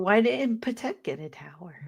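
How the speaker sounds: whispered joke; whispering. Real, not acted. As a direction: whisper the question softly. Whispered aside.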